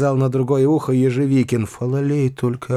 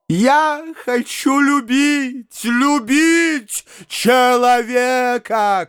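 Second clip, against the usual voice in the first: slow, drawn-out, higher exclamation; slow high pleading cry; 11 semitones higher, 3 dB louder, much slower than usual. A narrator's reading. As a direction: stretch the plea out like a wail. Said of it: "кричал Фома".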